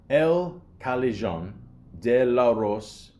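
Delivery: Spanish pronunciation of the title; Mexican accent. Pretend. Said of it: "I'm trying to do a Mexican accent".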